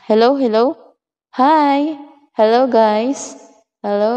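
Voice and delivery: light echo on the mic; a little reverb added to the voice. Shown as a demonstration. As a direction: test greeting with a touch of echo. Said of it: "Lalagyan ko siya ng echo".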